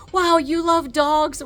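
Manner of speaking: light up suddenly at the word dogs; excited doctor. Retold or imitated. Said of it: "his entire demeanor changes".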